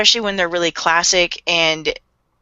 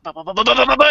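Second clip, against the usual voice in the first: imitated rapid dialogue; 4 semitones higher, much faster than usual. Fan imitating the dub actors' timed lines, rising babble. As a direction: mimic timed dialogue as rising nonsense syllables. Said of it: "they're just like".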